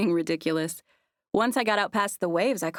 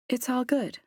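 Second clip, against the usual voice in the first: earnest; 5 semitones higher than usual. A narrator's reading. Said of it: "I said earnestly".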